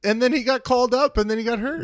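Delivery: mock the other guy's claim; sarcastic correction. Real, not acted.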